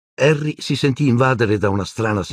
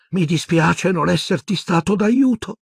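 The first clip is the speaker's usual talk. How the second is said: gently; 12 semitones higher than usual. A narrator's reading. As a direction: let him down gently. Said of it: "disse gentilmente Nick". (Nick che si scusa gentilmente con Harry)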